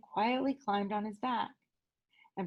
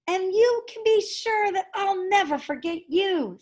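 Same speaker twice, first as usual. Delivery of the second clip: lightly voiced mouse; 8 semitones higher, 3 dB louder than usual. Amos at farewell.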